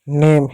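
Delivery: नेम with a long "e" and silent final e; long e sound. Shown as a demonstration. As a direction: say नेम as one syllable on ए. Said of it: "ए की मात्रा पढ़ेंगे।".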